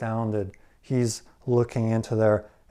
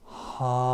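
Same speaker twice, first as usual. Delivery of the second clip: disappointed ah. Retold or imitated. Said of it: "and goes".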